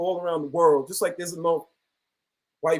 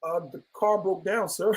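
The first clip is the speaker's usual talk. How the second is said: meek reply to cop; 6 dB quieter than usual. Retold or imitated. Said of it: "still questioning me".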